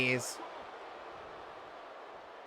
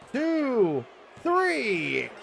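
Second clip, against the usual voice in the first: rising pin count; 10 semitones higher than usual. Acted.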